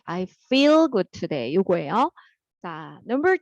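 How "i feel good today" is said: slow repeat with falling end; slow model reading. Shown as a demonstration. Teacher repeating the model sentence for kids, slow. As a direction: say it again slowly, settling down. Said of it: "나는 오늘 기분이 좋아".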